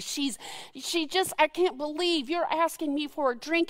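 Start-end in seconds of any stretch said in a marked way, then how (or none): 1.4-3.7 mock snarky. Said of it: "she's snarky".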